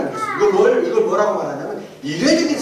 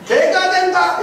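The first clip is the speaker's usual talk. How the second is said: high mock shout, only a little louder; retold shout; 7 semitones higher, 4 dB louder, slower than usual. Retelling a congregant's outburst to the room, imitated shout. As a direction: imitate a man calling from the back. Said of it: "이렇게 소리쳤습니다".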